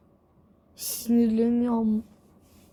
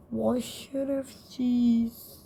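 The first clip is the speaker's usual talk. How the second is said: slow mock insult; 3 dB quieter, much slower than usual. Real, not acted. Insulting a game character.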